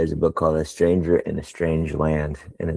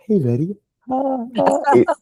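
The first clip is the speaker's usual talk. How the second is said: high, bright hello to a stranger; pitched-up friendly hey; cheery stranger greeting. Retold or imitated. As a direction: greet a stranger like an old pal. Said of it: "go up to a stranger and I'm like".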